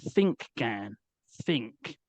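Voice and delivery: "think" leaned on and drawn out each time; coaxing Gan, stressing "think"; emphasis on think. Retold or imitated. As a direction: press down on every "think". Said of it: "the emphasis on the word think".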